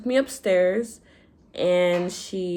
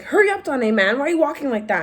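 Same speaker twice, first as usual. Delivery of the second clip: impatient mom imitated; 6 semitones higher, faster than usual.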